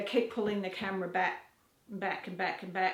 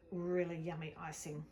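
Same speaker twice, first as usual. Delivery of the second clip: whisper; 3 semitones lower, 6 dB quieter than usual. Real, not acted. Whispering over the icing.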